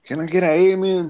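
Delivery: high mock revival call; mock preacher. Joking with the group about witnesses, mock preacher call. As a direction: call for amens like a hammed-up preacher.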